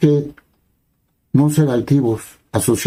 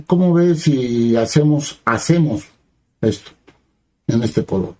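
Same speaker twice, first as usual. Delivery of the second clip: gentle suggestion. Shown as a demonstration. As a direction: offer it kindly, as a humble question. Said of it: "la misma frase, pero en otro tono". (sugerencia amable y humilde, lenta y más suave)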